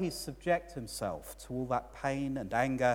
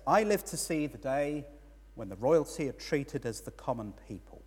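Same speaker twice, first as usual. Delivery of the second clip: slightly miffed, a bit raised; a little put out; 3 semitones higher, 3 dB louder than usual. Retold or imitated. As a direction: grumble it like an envious onlooker. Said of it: "a little bit put out".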